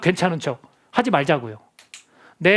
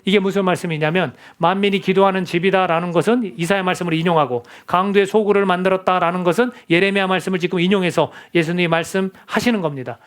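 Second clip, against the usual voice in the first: ordinary delivery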